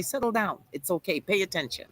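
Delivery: soft, soothing sister talking herself down; sisterly self-talk. Shown as a demonstration. Host coaching a guest, soft sisterly self-reassurance. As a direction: settle yourself like a kind sister would. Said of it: "talk to yourself like a sister".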